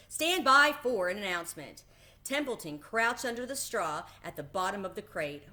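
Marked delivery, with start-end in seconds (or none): 0.1-1.8 loud announcer call; booming loudspeaker. A narrator's reading. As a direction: call the crowd to attention. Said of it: "boomed the voice of the loudspeaker".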